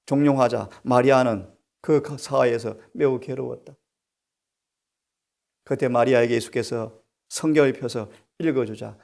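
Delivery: normal talking voice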